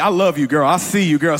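teasing shout-out to his wife; flirty holler across the room; playful flirting. Real, not acted. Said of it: "she don't even like when I do that".

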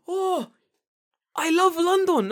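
loud high hammed-up cry of joy; excited shout. Retelling the smoking bus driver, thrilled loud shout.

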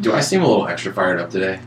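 a little rushed, fired up; talking fast. Real, not acted. Host asking co-hosts if he seems fired up, talking fast. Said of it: "you're talking a little fast".

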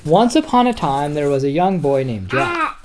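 lively bedtime story read; story narration. Acted. Dad reading Jack and the Beanstalk to his son, lively storytelling. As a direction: read it out to a little boy.

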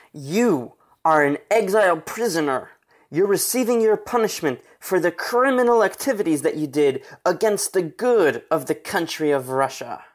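mildly stern official reading out an accusation; emphatic, with a touch of anger; angry tone. Acted. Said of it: "They said in an angry tone".

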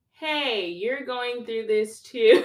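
high, loud, drawn-out hail to a peer; acted eager outreach. One generation reaching out to another going through this, eager outreach. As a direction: call out in sudden acted recognition.

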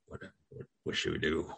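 urgent hushed whisper; a player whispering to his partner while hiding. Pretend. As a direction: whisper so the enemy can't hear. Hiding, afraid of being heard.

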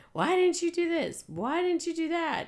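mock yelling. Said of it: "You don't have to yell out".

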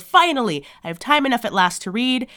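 thrilled. Retold or imitated. Host retells the bookworm finally free to read, thrilled. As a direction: play him excited at finally being free. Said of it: "so excited and so thrilled".

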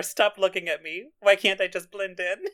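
half-laughing mock shout; playful yell quoting the scene. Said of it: "As she's, like, yelling it".

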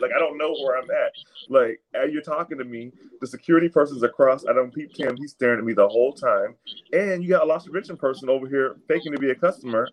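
ordinary talk, nothing marked

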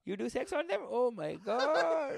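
losing it. Acted. Locals hearing about a foreign girlfriend, losing it. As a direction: drag out the scandalized delight. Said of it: "They lose it".

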